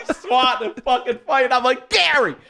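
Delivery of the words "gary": calling out. Retold or imitated. Calling deaf cousin.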